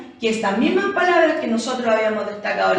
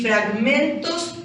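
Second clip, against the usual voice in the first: "fragmentos" slowly, leaning on men; drawn-out "fragmentos" showing its stress; stressed syllable demonstration; slower than usual. Shown as a demonstration. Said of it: "cargamos la voz".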